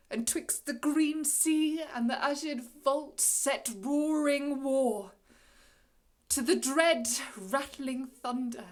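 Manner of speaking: loud, swelling boast of power; thundering incantation. Acted. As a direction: build it like a gathering storm. Prospero boasts of his violent magic.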